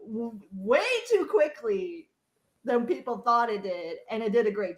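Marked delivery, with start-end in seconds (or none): 0.1-0.4 laughing. Real, not acted. Laughs through her words.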